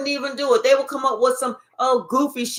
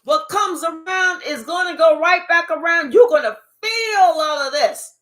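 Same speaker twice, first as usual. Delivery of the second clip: higher, louder, half-sung warning; God's voice; 4 semitones higher, 4 dB louder than usual. Retold or imitated. God warning the one who laughed, raised half-sung shout. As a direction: deliver the divine payback with a shout. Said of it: "God said".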